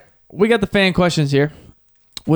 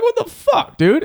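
high, laughing what the fuck; mock outrage; 14 semitones higher, 4 dB louder, slower than usual. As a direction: squeak it out through a laugh. Retelling his shocked reaction.

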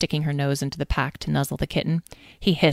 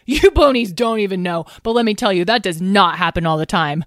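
higher and louder bragging; excited boast; 3 semitones higher, 5 dB louder than usual. Acted. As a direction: brag to the ponies, still buzzing.

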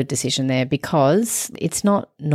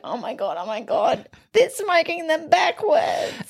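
panicked shout; 11 semitones higher than usual. Retold or imitated. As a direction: yell it in disbelief. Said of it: "and he's like".

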